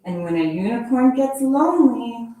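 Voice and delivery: lively storybook read-aloud; animated picture-book reading voice; reading to children. Acted. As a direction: read it like story time for kids.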